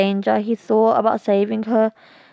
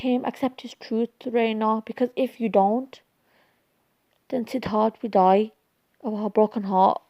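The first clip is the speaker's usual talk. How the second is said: gentle counsel; 3 dB quieter than usual. Acted. Aunt counsels Reina about Siddharth.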